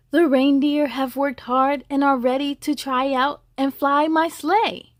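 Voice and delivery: a hint of a proud, booming Santa. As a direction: Santa announcing the tryouts. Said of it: "Santa said".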